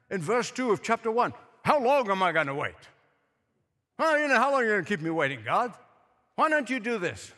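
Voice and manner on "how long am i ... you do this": impatient, rapid-fire mock complaint to God; condescending demand. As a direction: act out pushy questioning in prayer. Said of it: "It was very condescending".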